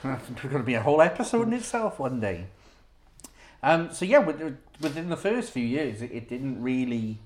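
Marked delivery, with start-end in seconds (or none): 0.0-2.5 words bubbling with laughter; chuckling through the line; trying not to laugh. Real, not acted. Laughing after Shannon story.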